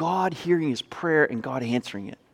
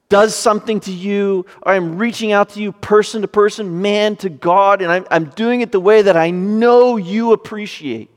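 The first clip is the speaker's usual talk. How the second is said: drawn-out, deliberate appeal to God; earnest plea; 3 semitones higher, 4 dB louder than usual. Acted. Preacher voicing David reaching out to God, earnest and deliberate. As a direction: plead it phrase by phrase, with weighty pauses.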